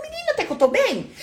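high, delighted mock relief; relieved exclaim. Debtor feels better hearing bigger debts, high relieved exclaim. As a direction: squeal it like good news. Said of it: "você fala".

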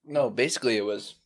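words around a sip of water; talking between sips of water; while sipping a drink. Real, not acted. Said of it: "Sorry, I'm drinking water".

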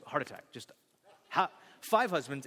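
normal talking voice

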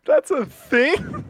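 disbelieving. Real, not acted. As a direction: stretch it out in stunned disbelief. Disbelief at the claim.

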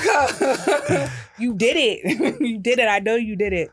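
laughing mock accusation of a friend who hung up; laughing scold. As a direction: tease him through giggles.

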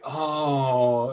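drawn-out imitated "oh"; really long. Kim throws her head back before agreeing, really long. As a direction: stretch out the exclamation. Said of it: "does this really long".

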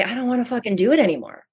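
mock worn-out sigh of a tired server; half-acted fed-up weariness; weary complaint. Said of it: "where you might just say".

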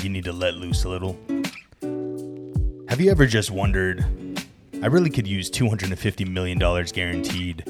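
punchy parody commercial voiceover; mock ad read. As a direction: sell it like a radio pitchman.

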